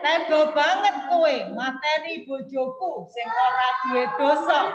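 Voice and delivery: loud, measured mock accusation; angry demo. Shown as a demonstration. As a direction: accuse him loudly, as a reading example. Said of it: "Ini kan orang marah ini".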